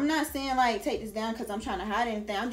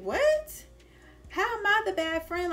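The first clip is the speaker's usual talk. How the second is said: high, louder squeal of outraged disbelief; shocked disbelief; 10 semitones higher, 4 dB louder than usual. Retold or imitated. Answering her friend who called her a bad friend, with shocked disbelief. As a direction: act stunned at the accusation. Baffled reply to being blamed.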